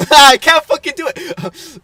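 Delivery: loud, high, laughing frustration; real exasperation. Real, not acted. Friend failing his impression, exasperated loud outburst. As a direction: burst out, giving up with a laugh.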